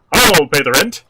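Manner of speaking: loud bold hero; booming melodrama hero; heroic voice. Pretend. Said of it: "they bring it down for, like, a bow tie".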